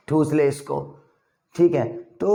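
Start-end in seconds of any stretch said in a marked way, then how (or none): 0.1-1.0 rough offer. Retold or imitated. Voices a rough invitation to eat.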